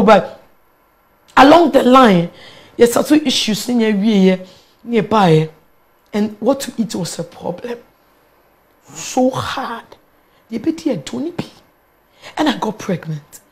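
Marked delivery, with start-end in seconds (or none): 6.1-13.4 much softer, low-pitched voice; subdued recollection. Real, not acted. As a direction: recall hard times quietly. Recalling hardship and hunger while pregnant.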